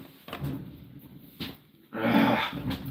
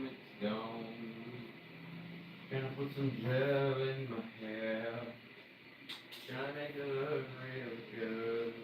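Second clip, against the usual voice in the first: quiet murmur; 3 semitones higher, 17 dB quieter than usual. Real, not acted. Murmuring to himself while styling hair.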